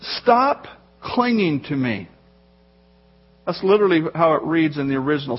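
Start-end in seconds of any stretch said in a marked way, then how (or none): 0.0-2.1 "Stop" set apart, then a slow "clinging to me"; measured, slow, with a pause after "Stop"; deliberate command. Acted. Jesus tells Mary to let go, slow and deliberate. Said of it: "And then Jesus says".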